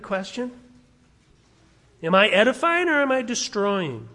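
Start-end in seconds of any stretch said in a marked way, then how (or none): none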